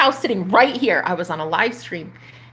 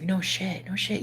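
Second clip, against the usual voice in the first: much softer offhand no shit; casual no shit; 10 dB quieter than usual. Retold or imitated. Neighbour shrugging off her amazement, soft casual. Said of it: "He's like".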